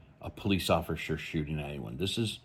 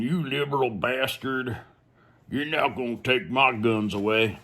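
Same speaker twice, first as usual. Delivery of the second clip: mocking angry commenter; 5 semitones higher than usual. Imagined commenter ranting at the vlogger, mocking indignant tone. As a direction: sneer it like an outraged online commenter. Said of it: "Sitting there going".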